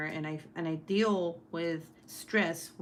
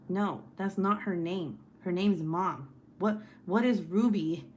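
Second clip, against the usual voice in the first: mock-exasperated, emphatic correction; imitating annoyed husband; 3 dB louder than usual. Husband arguing with niece over a name, mildly mad retold voice. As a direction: retell his indignation with mild heat. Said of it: "he kept getting mad at her".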